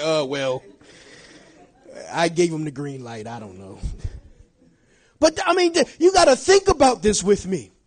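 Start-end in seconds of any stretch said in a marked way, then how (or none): 0.0-3.8 lower, softer, trailing off; mock sheepish excuse. Congregant answering the pastor, sheepish and fading out. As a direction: shrug it off like you're caught.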